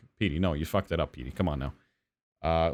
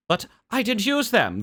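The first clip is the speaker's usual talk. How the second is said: put-on higher, slow indignant old lady; old woman protesting; 10 semitones higher than usual. Old woman insisting to the hotel manager, slow and indignant. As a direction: drag it out like an offended old woman.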